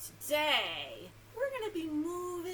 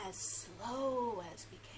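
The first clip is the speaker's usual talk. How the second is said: slow; 2 semitones lower, slower than usual. Shown as a demonstration. Announces the slow round of hello.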